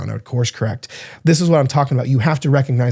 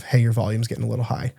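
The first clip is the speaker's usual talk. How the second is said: gentle quiet reminder; 3 semitones lower, 6 dB quieter, faster than usual. Retold or imitated. Wife's quiet reminder at dinner.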